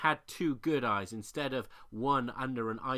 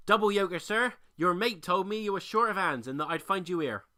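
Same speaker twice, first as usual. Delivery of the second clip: loud, higher keen voice; eager newcomer; 6 semitones higher, 7 dB louder than usual. A narrator's reading. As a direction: pitch yourself eagerly. New egg introduces himself.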